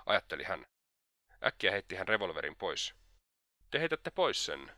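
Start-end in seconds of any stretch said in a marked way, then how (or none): 3.7-4.7 high, slow exclamation; exclaiming. A narrator's reading. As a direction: exclaim it slowly, pitched well up. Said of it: "huudahti Svidrigailov vetäen syvän henkäisyn".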